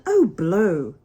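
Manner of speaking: loud, fed-up burst; exasperated exclamation. Acted. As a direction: toss it out in annoyance.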